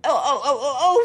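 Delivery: breaking into tearful oh's; distressed crying oh. Real, not acted. Confused mother cries out to Karen, tearful. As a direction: let the cry catch her.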